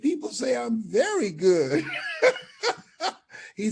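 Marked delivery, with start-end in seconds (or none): 0.0-1.8 loud, high proud claim; excited boast. Retold or imitated. Telling the booker how good he is, proudly excited. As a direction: pitch it up and brag it out.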